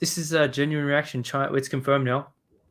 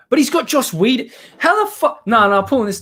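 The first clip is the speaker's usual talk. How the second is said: incredulous outburst; 10 semitones higher, 7 dB louder than usual. Real, not acted. Sees Joss Whedon in picture.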